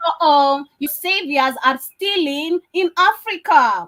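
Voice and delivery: mock alarm, slow and loud; sarcasm. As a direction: fake outrage at the saviors. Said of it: "understand the sarcasm".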